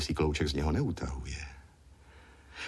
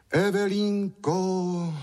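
high, drawn-out call of her name; a long, pleading call; 12 semitones higher, 4 dB louder, much slower than usual. A narrator's reading. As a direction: call after her as she runs off. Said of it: "zvolal Francínek".

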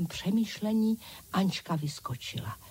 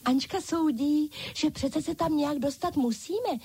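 high chorus of little dolls echoing "musíme"; dolls calling out together; 7 semitones higher than usual. A narrator's reading. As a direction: echo Anička brightly in high doll voices. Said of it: "zvolali všechny ostatní panenky". (vysoké hlásky panenek, zvolání)

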